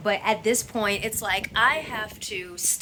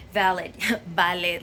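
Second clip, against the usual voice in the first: put-on Spanish accent; 3 semitones lower than usual. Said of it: "my Spanish accent".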